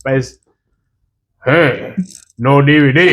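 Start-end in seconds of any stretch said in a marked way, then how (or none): 1.5-3.1 lightly put-on Chinese-accented refusal; imitated Chinese-accented seller; mock Chinese accent. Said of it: "I know it sounded like an Indian man".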